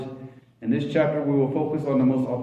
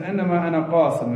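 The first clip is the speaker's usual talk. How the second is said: switching between two languages; 4 semitones higher, 4 dB louder, much faster than usual. Retold or imitated. Quotes the hadith in Arabic.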